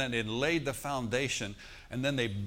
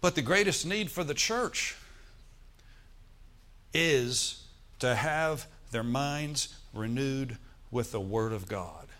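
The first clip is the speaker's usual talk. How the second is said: slow emphasis; slower than usual. Real, not acted. Repeats the profound statement.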